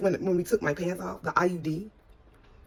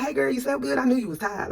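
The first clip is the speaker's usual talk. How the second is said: higher voice, quick friendly greeting; chirpy friend greeting; 7 semitones higher, 4 dB louder than usual. Retold or imitated. Friend greeting her after a nap, chirpy imitation. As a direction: imitate a friend's high-pitched hello.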